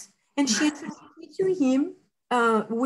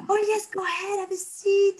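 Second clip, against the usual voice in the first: higher, friendly offer, imitating the captain; humble welcome; 9 semitones higher than usual. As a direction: invite her in kindly and lightly. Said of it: "like, humble".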